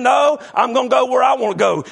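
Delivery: mock shouted refusal; stubborn retort. Preacher retelling a driving argument with his wife, mock shouting. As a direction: bull ahead and shout him down in a half-playful way. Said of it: "And I'm saying".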